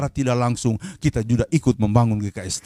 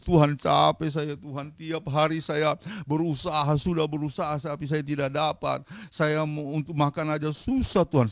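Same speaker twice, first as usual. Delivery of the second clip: imitated weary lament; 2 semitones higher than usual. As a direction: mimic someone wearily pleading with God. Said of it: "dia berdoa sampai mengeluh". (menirukan doa keluhan yang lelah dan lambat)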